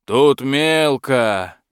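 slow, rumbling dragon call; booming dragon. Acted. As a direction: thunder it out slowly. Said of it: "прогрохотал дракон".

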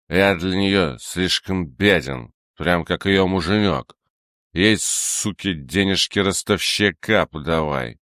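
put-on slow, slurred drunken grumble; drunk slurring. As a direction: slur it slowly, blackout drunk. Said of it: "Он звучно икнул".

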